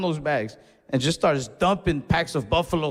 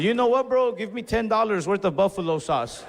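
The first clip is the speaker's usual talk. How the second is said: defiant order; 4 semitones higher than usual. Retold or imitated.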